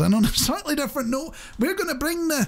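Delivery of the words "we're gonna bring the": high, shouted slogan call; rallying shout. Acted. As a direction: belt it like a protest chant.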